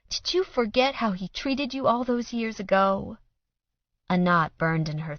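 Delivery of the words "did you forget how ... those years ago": higher, sad question; sorrowful reminder. A narrator's reading. Mother sadly reminding daughter. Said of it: "in a sad, sad voice".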